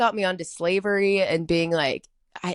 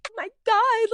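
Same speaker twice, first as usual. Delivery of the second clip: mock crying; 5 dB louder than usual. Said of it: "like, crying".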